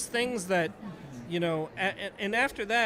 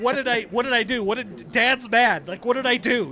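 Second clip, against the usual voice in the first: worried inner voice; 5 semitones higher, 8 dB louder than usual. Retold or imitated. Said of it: "thinking in my head".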